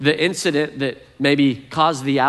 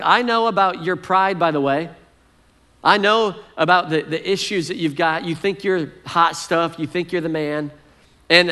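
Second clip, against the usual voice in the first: angry brother rant; 4 semitones higher than usual. Retold or imitated. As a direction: lay into your little brother. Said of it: "spews out all this anger".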